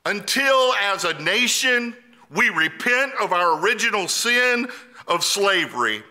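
emphatic preacher's declaration in measured phrases; impassioned preaching. Real, not acted. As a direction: proclaim it with building conviction.

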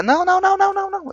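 very high frantic nos; panicked no. Real, not acted. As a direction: shriek no in panic. Panicked denial.

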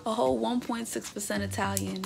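high, loud thrilled squeal at finding out she's Italian; excited discovery. Real, not acted. Excited to find Italian ancestry.

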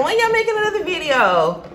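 high, eager fan voice; imitating fans. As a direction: ask it like an impatient fan. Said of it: "Y'all be like".

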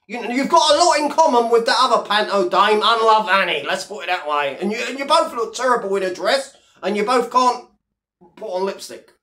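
ordinary talk, nothing marked

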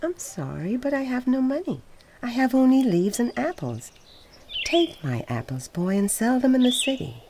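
high and loud, earnest tree; tree's voice. A narrator's reading. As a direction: lift the voice high and offer the apples. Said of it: "tree answers the boy".

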